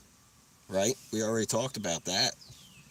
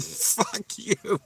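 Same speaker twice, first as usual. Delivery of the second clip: retold angry retort; 10 semitones higher than usual. Retort to the prankster who scared him.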